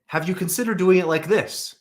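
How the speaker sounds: "Have you considered doing it like this?" pitched high as a suggestion-question; leading question tune. Shown as a demonstration. Manager hinting to the team, "Have you considered doing it like this" in a high questioning tune. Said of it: "Question mark".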